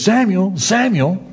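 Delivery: calling voice of God. Acted. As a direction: call the sleeping boy from afar. God calling the boy at night.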